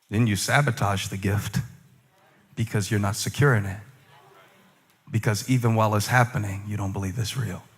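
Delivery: inner voice. Retold or imitated. Voicing the discouraging thoughts.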